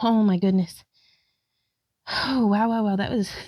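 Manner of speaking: breathless voice. After a yoga flow into downward dog, speaking out of breath. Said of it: "I'm like out of breath and my heart's pounding".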